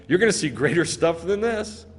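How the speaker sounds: lightly teasing, casual promise; mocking. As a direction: toss it out as a mild taunt. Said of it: "He's mocking him".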